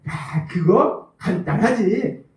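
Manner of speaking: 웃으며 느리게 으스대는 남편 흉내; 다 안다는 듯 웃음 섞어 천천히. Retold or imitated. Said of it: "해결책을 신나게 말한다는 거예요". (아내에게 해결책을 자랑하는 남편, 웃음 섞인 느린 말투)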